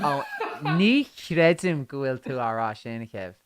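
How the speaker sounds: slow Irish in an American accent. Shown as a demonstration. Answering a listener's request, American accent on Irish. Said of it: "speak Irish with an American accent".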